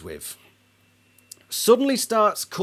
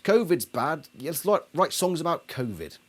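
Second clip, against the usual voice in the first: mocking fans; 5 semitones higher than usual. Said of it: "a band and all the fans just".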